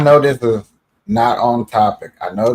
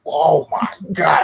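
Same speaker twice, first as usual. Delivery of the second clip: acted dismay; 4 semitones higher, slower than usual. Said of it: "And I'm like".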